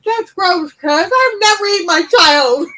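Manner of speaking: mock indignant protest, voice cracking with laughs; mock outrage. Retold indignant reply.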